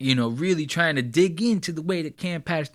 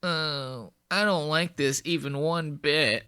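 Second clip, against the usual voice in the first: a hint of a fretful, softer whine, mocking the guitarist; mock upset bandmate; 2 semitones higher, 5 dB quieter, slower than usual. Vlogger mocking the guitarist's disapproval: lightly voiced fretful whine. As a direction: play the prissy offended bandmate, lightly. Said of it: "He's sitting there like".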